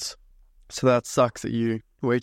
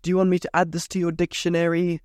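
lightly mocked spellchecker, raised pitch; higher-pitched mock software voice; mock computer prompt; 5 semitones higher than usual. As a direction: imitate a pestering autocorrect pop-up, higher. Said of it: "It says".

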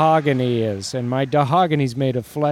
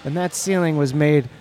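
lively game announcer; sports commentary; 4 semitones higher than usual. Acted. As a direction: call the game. Play-by-play commentary.

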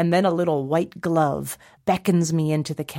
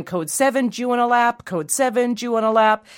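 lightly voiced urgent radio report, higher; elf on walkie-talkie; 5 semitones higher than usual. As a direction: imitate an elf radioing an alert. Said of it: "an elf on a walkie-talkie".

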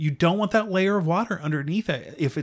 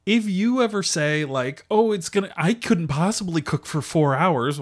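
gently mocking tone; 3 semitones higher than usual. Julia teasing viewers who claim no time, lightly mocking. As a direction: tease the viewer's excuse lightly. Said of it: "in a tiny bit of a mocking tone".

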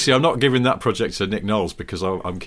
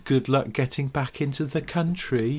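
loud, fast, higher taunting Noel voice; mock taunt; 6 semitones higher, 5 dB louder than usual. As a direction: jeer at him to come and get you, fast.

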